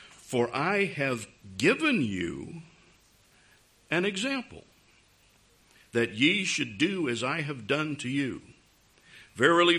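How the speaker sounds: measured Bible reading with pauses; scripture reading. Acted. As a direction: read the passage out phrase by phrase. Reads scripture aloud.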